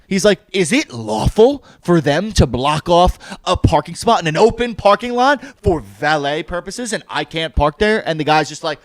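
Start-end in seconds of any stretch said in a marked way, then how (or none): 0.5-8.1 retold pedantic cross-examination; indignant challenge. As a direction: spell out the grievance word by word. Retold customer challenging waiter on parking.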